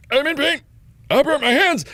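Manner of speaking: high, strained mock wail; pained wail. Burnt patient at emergency room counter, high pained wail. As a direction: complain loudly through the pain.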